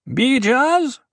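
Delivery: high-pitched call of a name. A narrator's reading. Duri calls for the dwarf, calling out. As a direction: call for someone, pitched well up. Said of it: "Duri called".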